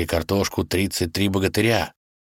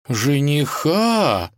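higher, slow, curious question; intrigued; 8 semitones higher, much slower than usual. Acted. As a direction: perk up with interest. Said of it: "с интересом взглянула".

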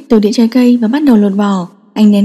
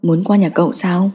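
lower, softer fatherly question; father crouching to ask his son, softly; gentle father; 4 semitones lower, 6 dB quieter than usual. Acted.

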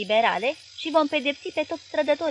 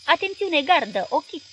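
loud, higher military order; raised voice, commanding the firing line; shouted command; 5 semitones higher, 6 dB louder than usual. A narrator's reading. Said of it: "A strigat".

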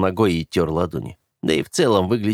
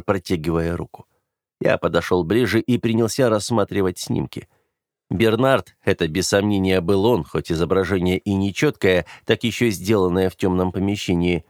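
usual speaking voice

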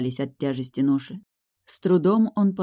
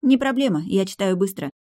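higher, confident, breezy reply with a smile; smiling; 6 semitones higher than usual. A narrator's reading. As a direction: brush it off with a smile. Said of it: "с улыбкой отозвалась я".

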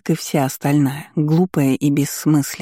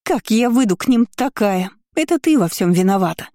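higher, accusing; whiny blame; 6 semitones higher than usual. Acted. Kiora whines blame at her cousin, higher.

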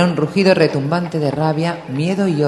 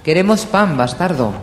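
angry crowd shout; 5 semitones higher, 5 dB louder than usual. A narrator's reading. Crowd demands bread.

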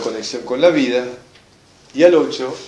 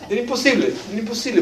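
high-pitched exasperation; exasperated; 8 semitones higher, 4 dB quieter, faster than usual. Real, not acted. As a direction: stress how unbearable it was. Recalling screaming child on plane.

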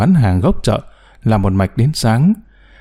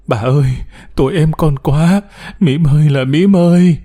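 khóc than; 4 semitones higher than usual. Acted. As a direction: wail her sister's name. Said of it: "Thì nín đi". (khóc gọi tên em, giọng cao và to dần)

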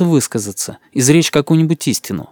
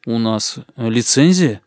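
unsure; 2 semitones lower, slower than usual. Acted. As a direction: say it unsure of yourself, caught off guard. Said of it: "сказал неуверенно".

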